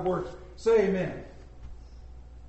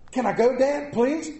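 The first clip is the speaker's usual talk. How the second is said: put-on boy begging; 5 semitones higher than usual. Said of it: "Norman pointed to a billboard".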